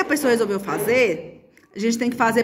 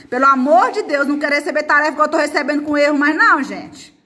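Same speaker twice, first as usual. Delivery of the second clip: louder, higher, rushed plea to pupils; exasperated plea; 4 semitones higher, 4 dB louder than usual. Real, not acted. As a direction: implore the class, voice raised and hurrying. Pleading with pupils over sloppy homework. (súplica exasperada, voz mais alta e apressada)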